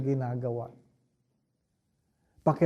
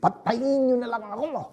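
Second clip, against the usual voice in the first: despairing cry; 8 semitones higher than usual. Retold or imitated. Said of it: "Tinulak niya ang lamesa".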